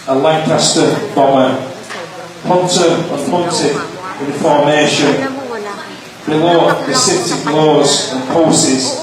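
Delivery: measured poem recital with pauses; poetry reading. Acted. Poet reading his poem to an audience, measured recital. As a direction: read it line by line, pausing after each phrase.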